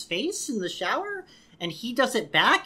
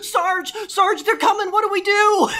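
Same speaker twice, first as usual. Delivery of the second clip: high, loud frantic soldier voice; panicked soldier; 10 semitones higher, 5 dB louder than usual. Retold or imitated. Victor in a war flashback calling his sergeant, mock panic. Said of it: "Victor flashes back to".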